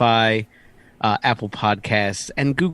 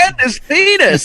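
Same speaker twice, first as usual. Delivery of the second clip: laughing; 8 dB louder than usual. Real, not acted. Still laughing at the read.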